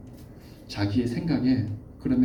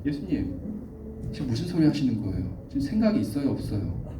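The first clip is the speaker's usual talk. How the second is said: mild indignant rebuke; 베드로. Acted. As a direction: take him to task, lightly acted. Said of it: "꾸짖는 거예요". (살짝 따지며 꾸짖는 말투)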